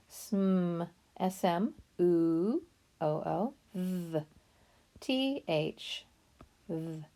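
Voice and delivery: "Sm", "oo", "th" said as separate sounds; sounding out. Shown as a demonstration. Teacher sounding out "smooth" sound by sound. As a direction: break "smooth" into its sounds slowly. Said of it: "Sometimes th has that sound".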